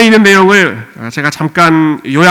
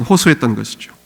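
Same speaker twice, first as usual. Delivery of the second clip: ordinary delivery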